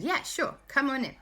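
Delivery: high, happy invitation; children welcoming tired guests; eager welcome. Acted. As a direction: welcome them in gladly. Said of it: "And Alexander and Christopher said".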